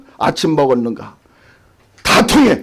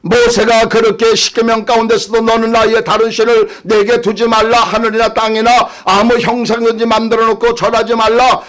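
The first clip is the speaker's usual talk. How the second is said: raised-pitch sermon delivery; fervent preaching; 5 semitones higher than usual. Real, not acted. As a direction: rattle off the commandments as a preacher. Preaches God's commandments.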